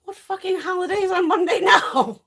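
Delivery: puzzled about a Monday holiday, laughing. Real, not acted. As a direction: laugh through the question in disbelief.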